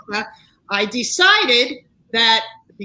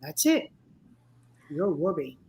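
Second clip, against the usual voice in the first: daughter's quiet line; 6 semitones lower, 6 dB quieter than usual. Retold or imitated. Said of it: "she goes".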